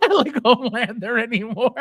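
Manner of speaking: laughs through the words; amused chuckle while talking; laughing. Real, not acted. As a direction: breaks into a real laugh mid-line. Laughing at the figure's face.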